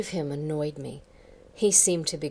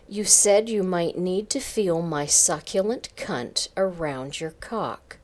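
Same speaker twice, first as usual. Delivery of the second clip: repeated clearly and louder, eyes up; 4 semitones higher, 6 dB louder than usual. Acted. Karen repeating her words louder to her boss, firmer. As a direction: say it out loud this time. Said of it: "I repeated, louder".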